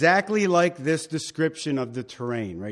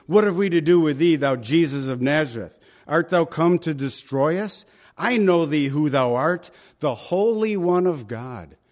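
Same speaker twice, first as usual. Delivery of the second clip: demon crying out; 4 dB louder than usual. Retold or imitated. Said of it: "they cry out".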